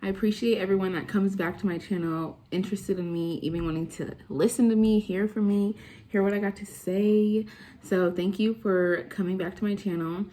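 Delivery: talking with a retainer in; slightly lisped retainer speech; wearing a retainer. Real, not acted. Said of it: "Sorry if I talk a little funny. I have my retainers in".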